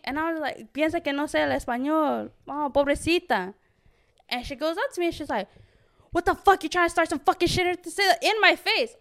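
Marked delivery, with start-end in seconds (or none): 0.7-3.5 mock pitying Spanish jab. Mocking the girl in Spanish. 6.1-8.9 higher mock hostile challenge. Quoting hostile girl.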